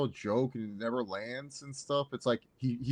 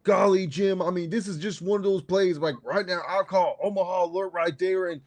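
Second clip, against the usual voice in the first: mock Philip Rivers commentary; 5 semitones higher, 4 dB louder than usual. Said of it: "Rivers on commentary imagined".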